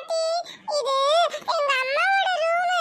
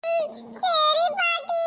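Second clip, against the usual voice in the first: tearful yes; slower than usual. Acted. Child agrees through tears.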